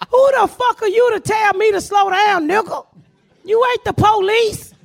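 high indignant yell, slowing at the end; hammed-up furious yell at the driver; retold shout. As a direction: tell him off like he's nobody.

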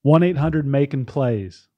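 mock tout's sales pitch; lightly put-on infomercial huckster; gambling ad read. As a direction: sell betting picks like a hammy pitchman. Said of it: "This is a gambling ad".

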